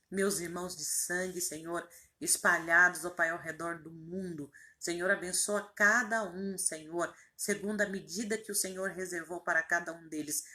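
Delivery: earnest prayer, gradually settling toward the amen; intercessory prayer. Real, not acted. (oração de intercessão, serenando até o amém)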